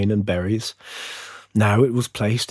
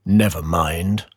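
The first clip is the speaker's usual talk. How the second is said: low, slow, kindly sun; gently reassuring, slow and lower; beaming sun; 5 semitones lower, slower than usual. A narrator's reading. Sun comforting the little fir, slow and beaming. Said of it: "beamed the sun".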